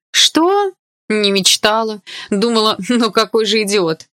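high, loud indignant cry; indignant outburst. A narrator's reading. Girl fires back at Dima's teasing, indignant and loud. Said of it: "возмутилась я".

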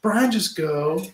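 slow, drawn-out plea at normal volume; weary urging. Real, not acted. Host urges the stalling player on, slow weary plea. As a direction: spell it out slowly, patience running thin. Host repeats the order, slower.

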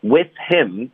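"With him" run together, h dropped; linked with him. Shown as a demonstration. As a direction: blend "With him" into one word. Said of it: "我们连读，H的音省略".

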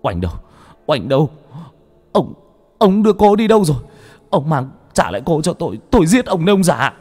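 high, loud frantic screaming; raging yell. Acted. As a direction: scream threats at the old man. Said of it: "Thạnh vẫn đang lồng lộn".

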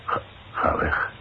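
breathless whispered disbelief; stunned, hushed no way; shocked whisper. Acted. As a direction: whisper it as the news lands. Shocked reaction to accident news.

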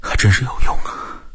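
weary, breath-heavy remark with a bitter smile; drained, rueful quip; wry bitter smile. Acted. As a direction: say it wryly, with little voice. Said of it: "苦笑了一下".

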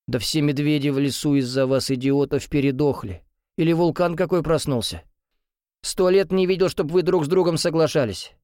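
a hint of a grumpy grandpa scolding; mock-outraged grandfather. A narrator's reading. Grandfather teases father and son, mock outrage.

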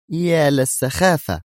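slow, high-pitched exasperation; nervy mutter. A narrator's reading. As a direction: draw it out in edgy annoyance. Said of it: "متمتمة في عصبية أكثر". (متمتمة بعصبية)

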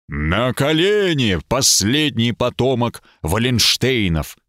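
slow booming inhuman voice; eldritch horror. Acted. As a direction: thunder it like an otherworldly being. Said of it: "прогремел нечеловеческий голос".

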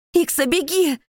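very high, loud panicked scream; desperate shout. Acted. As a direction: scream at him to flee. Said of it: "кричу я".

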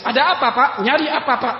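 brisk, businesslike wife to a stranger; a touch of a curt housewife; firm voice. Retold or imitated. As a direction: talk crisply like a clerk. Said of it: "suaranya tegas".

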